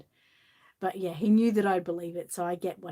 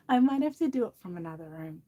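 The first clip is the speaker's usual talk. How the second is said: laughing. Real, not acted.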